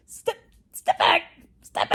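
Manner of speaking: loud, high mock retort; shouted warning. Acting a retort to a bossy coworker, shouted warning. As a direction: order them off at full volume.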